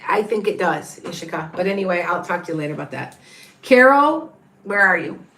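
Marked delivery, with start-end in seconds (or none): 3.6-5.2 calling out. Real, not acted. Calling for viewer in chat.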